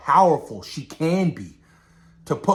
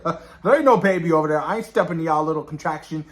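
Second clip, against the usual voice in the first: dismissive Galactus; 3 semitones higher, faster than usual. Retold or imitated. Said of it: "Galactus being Galactus, he's like".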